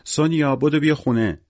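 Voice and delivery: high, loud call to the street; shouting from the window. A narrator's reading. Victor yells from the window for his daughter to come home, high and urgent. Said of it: "پشت پنجره دوید و داد زد".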